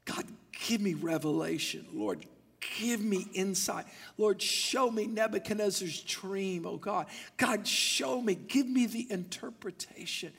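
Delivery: hushed, pleading prayer; crying out in prayer. Acted. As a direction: pray softly and earnestly, nearly whispering at first. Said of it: "He began to cry out to God".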